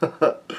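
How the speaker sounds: brief soft chuckle; laugh. Real, not acted. Reader amused by the fainting scene, soft chuckle. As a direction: chuckle quietly to yourself.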